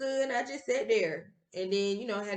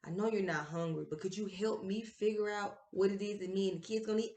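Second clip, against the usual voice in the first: soft suggested wording; 3 semitones lower, 9 dB quieter than usual. Retold or imitated. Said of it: "why didn't you say something like".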